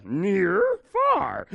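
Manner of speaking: puppet-style demo, leaping high on "far"; exaggerated cartoonish children's TV voice; Sesame Street. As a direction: call out each word like a kids' show puppet. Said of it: "Kind of like Sesame Street".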